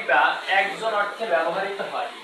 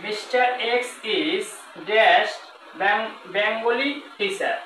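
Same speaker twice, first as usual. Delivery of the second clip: slow example reading; slower than usual. Shown as a demonstration. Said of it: "আরেকটা example দেখেন".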